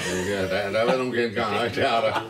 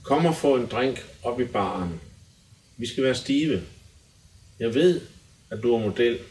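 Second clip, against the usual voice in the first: dramatic lyric recital. Acted. Guest reads pop lyrics aloud for the hosts, measured recital.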